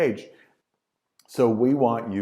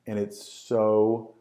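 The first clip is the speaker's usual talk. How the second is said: drawn-out bored; much slower than usual. Shown as a demonstration. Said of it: "and it's just so".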